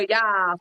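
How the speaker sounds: "Y'all" with a wide, open vowel; "Y'all" as the locals say it, closer to "yah". Shown as a demonstration. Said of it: "That's what we say".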